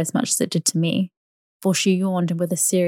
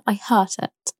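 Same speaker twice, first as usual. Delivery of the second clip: complaining; 3 semitones higher, slower than usual. Acted. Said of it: "she complained".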